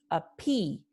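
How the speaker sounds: "appease" slowly, stress on the "ee"; acento final. Shown as a demonstration. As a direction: draw out the second syllable of "appease". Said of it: "tiene un acento o un estrés". ("appease" con la I acentuada)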